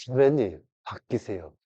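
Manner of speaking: quiet, held-back urging, fading low; patiently restrained plea. Shown as a demonstration. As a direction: hold it in and say it softly. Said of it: "꽉 참고".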